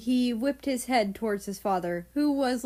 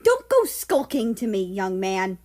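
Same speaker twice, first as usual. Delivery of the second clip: scoffing scold; 5 dB louder than usual. Acted. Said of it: "Third Reich scoffed".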